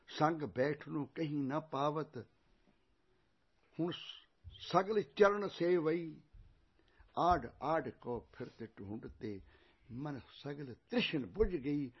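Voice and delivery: slow, drawn-out sacred verse; scripture recitation. Acted. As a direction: recite each word slowly and deliberately. (ਹੌਲੀ-ਹੌਲੀ ਗੁਰਬਾਣੀ ਦਾ ਪਾਠ)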